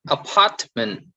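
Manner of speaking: "apartment" with PART stressed; stress on middle syllable. Shown as a demonstration. Teacher reading out the middle column, middle stress on "apartment". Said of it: "stress on the middle".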